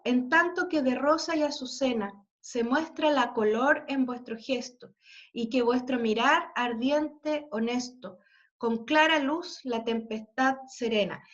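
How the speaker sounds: a teacher reading a Spanish sonnet; poem recitation. Shown as a demonstration. Teacher reads sonnet aloud.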